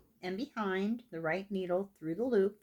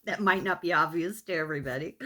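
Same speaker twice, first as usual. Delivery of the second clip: laughing self-mockery; 2 semitones lower, faster than usual. Real, not acted. Joking about not being a professional.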